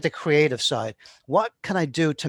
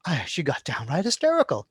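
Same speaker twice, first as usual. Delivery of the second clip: wide-eyed shock. Shown as a demonstration. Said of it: "push that a little bit further".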